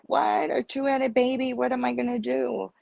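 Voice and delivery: high, quick mock-distraught outburst; retold distraught. Pregnant patient questioning the doctor, retold as distraught. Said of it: "I'm bawling, so distraught and crying".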